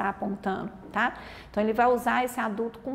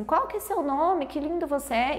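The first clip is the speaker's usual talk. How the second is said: put-on adult addressing child; 5 semitones higher than usual. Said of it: "Alguém pergunta assim".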